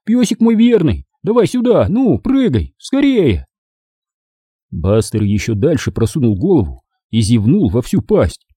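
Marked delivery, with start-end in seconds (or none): 0.0-3.5 high, eager sweet-talk; tender coaxing. A narrator's reading. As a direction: coax the dog along in a lifted voice. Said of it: "нежнейшим голосом пел я". (ласково уговаривает собаку)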